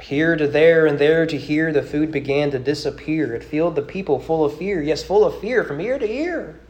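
rhythmic, lilting poem read aloud. Acted. Preacher reciting a rhyming poem to his congregation, lilting. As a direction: recite the rhyme with a storyteller's swing.

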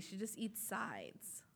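breathy half-whispered aside. Real, not acted. Co-host whispering an aside about her eating habits, hushed. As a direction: drop to a whisper for the joke.

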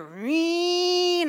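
high call from across the yard. Retold or imitated. Man calling to her across the property, loud call. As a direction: call her name from a distance.

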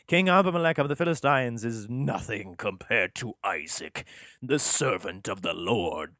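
lightly voiced grand patriarch, slowing at the end; a hint of a pompous prophet; grandiose Isaac. Isaac self-glorifying, grand.

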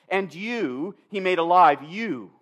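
each "you" held and set apart; stress on YOU. Retold or imitated. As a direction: linger on both instances of "you". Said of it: "why does he emphasize this".

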